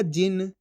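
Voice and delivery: "जिन" with short i and half-sounded न; half final consonant. Shown as a demonstration. Teacher repeating the rule, "जिन" with half-sounded न. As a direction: finish "जिन" on न with no long vowel after. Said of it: "आधा उच्चारण कर देंगे".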